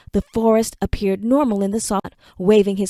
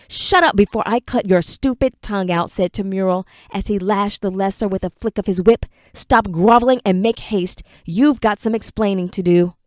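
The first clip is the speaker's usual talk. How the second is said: harsh command. Acted. Temural lashes servant.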